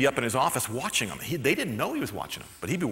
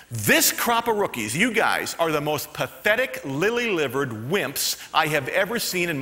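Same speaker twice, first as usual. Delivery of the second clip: scornful coach. Retold or imitated. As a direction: drag out every insult with scorn. Coach berates rookies.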